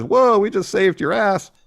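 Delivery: high, loud, drawn-out protest; mock indignant outburst. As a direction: imitate an offended wrestler protesting loudly. Quoting Carter's indignant protest.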